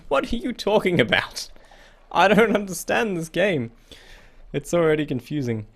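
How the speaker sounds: high-pitched bewildered outburst; baffled exclamation. Real, not acted. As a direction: protest in a high, confused squeal. Baffled outburst at confusing game text.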